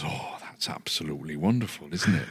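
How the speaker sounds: put-on Yorkshire woman's voice; gushing in a Yorkshire accent. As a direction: imitate an appreciative Yorkshire lady. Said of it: "change your accent when she was speaking".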